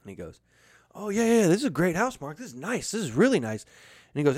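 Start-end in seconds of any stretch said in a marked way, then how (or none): 0.9-3.6 high, swooping overpraise; lilting, laid-on-thick compliments; showy praise. Retold or imitated. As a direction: imitate a brother gushing over the house. Brother's showy praise of house acted.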